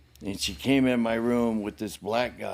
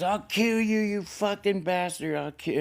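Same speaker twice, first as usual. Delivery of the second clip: high-pitched imitated screech of rage; mock enraged mother; 8 semitones higher than usual. Injured mother to fleeing son, imitated high fury.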